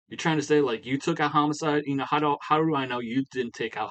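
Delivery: hammed-up suspicious outburst; mock angry accusation.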